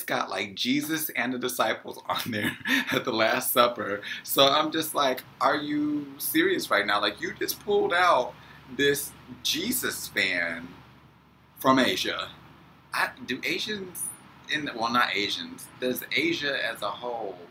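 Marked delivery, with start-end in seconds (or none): 5.4-12.3 incredulous. Retold or imitated. Disbelief at Jesus fan from mom.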